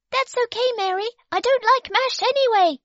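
put-on a tiny prim baby speaking up; baby refusing the bib, squeaky and prim; Baby's voice. A narrator's reading. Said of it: "she said".

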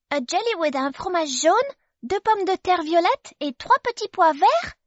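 put-on a tiny prim baby speaking up; baby refusing the bib, squeaky and prim; Baby's voice. A narrator's reading. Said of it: "asked Baby".

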